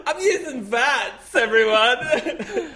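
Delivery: high, slow, squeaky goofy voice; silly high voice. Pretend. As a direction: drag it out in a cartoon squeak. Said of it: "You can say anything in that voice".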